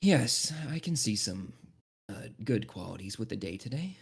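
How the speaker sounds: a lightly voiced stiff guard humoring a friend; reserved companion. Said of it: "And Asoran's like".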